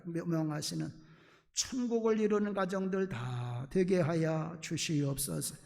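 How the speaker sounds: earnest prayer, rising toward the amen; fervent Korean church prayer; pastoral prayer. Acted. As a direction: pray over the congregation with conviction. Pastor leads a closing prayer.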